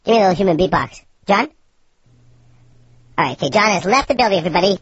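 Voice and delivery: sped-up helium cartoon voice. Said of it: "My voice is so high".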